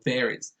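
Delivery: varies said like "very" plus Z; final Z sound. Shown as a demonstration. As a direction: end varies on a buzzed Z. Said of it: "a Z sound at the end".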